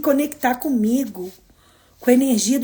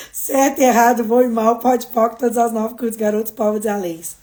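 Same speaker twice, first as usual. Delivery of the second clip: recited formula; 2 semitones lower than usual. Acted.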